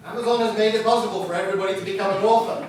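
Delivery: laughing, quick and ironic; rueful laughing repeat. Shown as a demonstration. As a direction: turn the praise into a wry joke. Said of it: "really terrible thing is".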